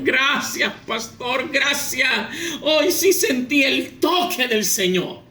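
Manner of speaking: acted relieved thanks, drawn out at the end; grateful Brother Juan. Churchgoer embracing the pastor who hit him, acted gratitude. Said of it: "abraza al pastor".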